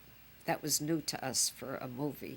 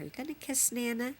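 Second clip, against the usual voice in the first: put-on higher, rising coax to a baby; coaxing grandma; 7 semitones higher than usual. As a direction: ask a baby sweetly for a kiss.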